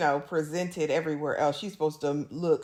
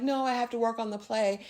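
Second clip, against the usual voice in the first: higher-pitched mock coy protest; playing coy; 5 semitones higher than usual. Armand putting Louis off, mock coy. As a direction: imitate someone playing hard to get. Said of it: "tries to play coy".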